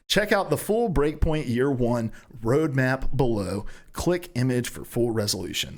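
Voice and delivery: article read aloud, key phrases slowed; measured read-aloud delivery; news read. Real, not acted. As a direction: read it out like a gaming news item.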